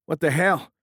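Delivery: high, loud astonishment; astonished. A narrator's reading. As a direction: gape at the impossible turn. Object turns impossibly.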